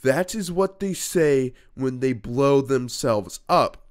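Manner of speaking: slow, mocking imitation of Johnny; lightly voiced whiny kid; mock quote. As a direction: quote him in a slightly put-on voice. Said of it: "and I quote".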